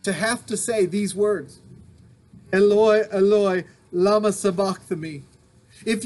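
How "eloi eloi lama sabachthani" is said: Eloi, Eloi cried out loud, falling to lama sabachthani; loud cry. Acted. Preacher voices Jesus crying out to God, loud. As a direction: let Eloi ring out, then fall away. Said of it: "Jesus cried out in a loud voice".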